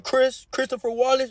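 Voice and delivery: lightly voiced stern teacher; teacher naming him. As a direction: mimic her exposing the fake name. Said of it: "when the lady said".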